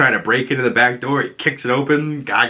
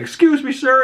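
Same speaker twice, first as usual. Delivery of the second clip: mock polite woman; 3 dB louder than usual. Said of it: "this woman walks up behind him like".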